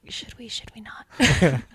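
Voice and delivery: slow, hushed uncertainty; tentative, breath-only question; hesitant whisper. Acted. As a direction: whisper it as if unsure of the moment. Confused sheriff hesitates, close up.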